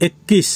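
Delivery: একুশ as Hindi ekkis; Hindi pronunciation. Shown as a demonstration. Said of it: "হিন্দিতে".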